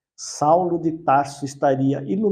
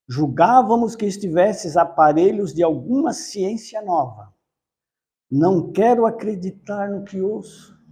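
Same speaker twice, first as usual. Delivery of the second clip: scornful exclamation, higher and louder; deep contempt; 3 semitones higher, 5 dB louder than usual. A narrator's reading. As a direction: exclaim it with haughty disdain. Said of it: "evidenciando provu-, profundo desprezo, exclamou". (exclamação com profundo desprezo)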